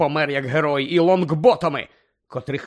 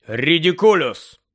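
slow, firm, clearly spoken spell; 5 dB louder, slower than usual. Acted. Lupin casting the spell at the boggart, firm and clear. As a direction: say the spell calmly and firmly. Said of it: "вимовив твердо та чітко".

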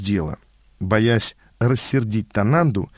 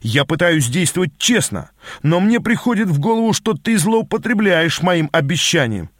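higher-pitched mock indignation; feigned anger; 6 semitones higher than usual. Narrator bluffs Quigley about abusing his promise, feigned anger. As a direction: act offended, voice rising. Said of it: "изобразил я гнев".

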